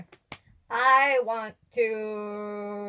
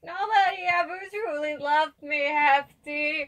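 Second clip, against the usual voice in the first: hammed-up tearful complaint, pitched up; mock tearful child; 3 semitones higher than usual. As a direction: sob it out like a hurt little kid. Child character sobs to Hefty.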